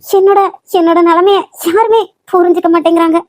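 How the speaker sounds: despairing outcry. Acted. Daughter despairs after parents' ultimatum.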